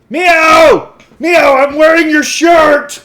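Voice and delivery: very high, very loud playful scream; full-volume squealed shout, words stretched out. Pretend. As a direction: scream the greeting at the top of your voice. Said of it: "required to scream at Mio".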